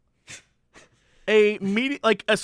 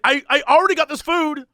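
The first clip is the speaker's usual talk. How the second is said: higher, indignant protest; exasperated, pitched-up objection; mock shouting; 6 semitones higher than usual. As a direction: imitate an irate customer refusing to budge. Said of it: "just by shouting at people".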